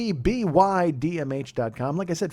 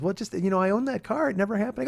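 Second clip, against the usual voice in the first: raised, softer imitation of wife; teasing dismissal; 5 semitones higher, 4 dB quieter than usual. Wife doubting husband's car story, teasing dismissal. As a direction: dismiss it lightly, without force.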